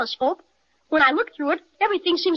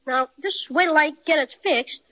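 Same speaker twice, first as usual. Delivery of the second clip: amazed. Acted. Boy looks through telescope, amazed.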